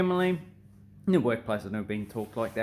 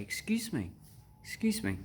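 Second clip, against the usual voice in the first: polite; 3 semitones higher, 5 dB quieter than usual. Shown as a demonstration.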